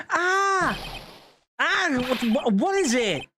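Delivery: startled character voices reading the scene; voiced game dialogue. Girl recognising her mother, voiced with startled alarm. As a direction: act out the shocked discovery of the scroll.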